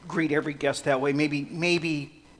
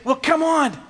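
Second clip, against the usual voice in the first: dismissive Jesus; 13 semitones higher, 11 dB louder, slower than usual. Retold or imitated. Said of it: "Jesus would say".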